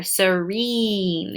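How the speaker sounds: serene drawn out slowly, long ee held. Shown as a demonstration. Teacher modeling the long E in serene, slow and clear. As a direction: stretch the ee in serene. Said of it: "you hear that long E".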